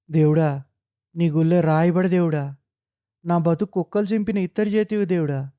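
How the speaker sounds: sing-song grieving wail, each line ending on కొడకా; wailing lament. Acted. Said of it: "పిచ్చిదానిలా ఏడుస్తోంది". (విలపిస్తూ ఏడుపు రాగం)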